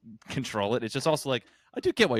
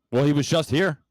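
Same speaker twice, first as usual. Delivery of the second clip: mock indignant shout; 5 semitones higher, 8 dB louder than usual. Acted draft-room quarrel.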